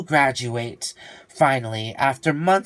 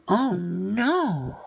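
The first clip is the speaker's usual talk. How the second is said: higher, startled cry; alarmed little cry of dismay; 5 semitones higher than usual. Acted. Saul falling off the ship, a startled cry.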